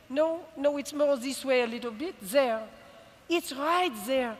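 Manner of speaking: put-on a light French accent for her mother. French mother pointing her daughter toward Cuba, light French accent. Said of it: "who spoke with a thicker accent than my father".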